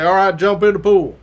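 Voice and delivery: loud imitation of a trooper's order; called-out command. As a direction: call the order out to a group. Trooper orders recruits into pool.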